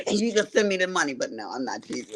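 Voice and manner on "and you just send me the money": quick, higher country-accent imitation; lightly imitated country accent. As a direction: mimic a country friend, pitched up and fast. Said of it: "her little country accent".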